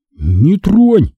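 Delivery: high, tense warning with voice; urgent high-pitched stop; urgent hiss. A narrator's reading. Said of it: "зашипел Вася".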